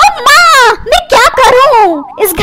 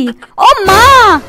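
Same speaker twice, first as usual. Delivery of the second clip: long drawn-out "oh mother" moan; exasperated lament; much slower than usual. Acted. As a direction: bemoan your fate, very slowly. Wife bemoans her marriage.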